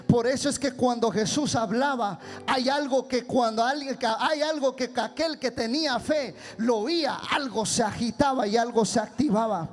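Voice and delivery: forceful preacher's delivery; preaching. Real, not acted. Preacher telling congregation how faith hears the Word, forceful preaching. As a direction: preach it with steady driving force.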